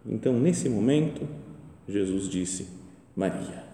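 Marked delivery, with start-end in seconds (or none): 3.2-3.6 tender calling. Retold or imitated. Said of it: "pelo jeito carinhoso de Jesus".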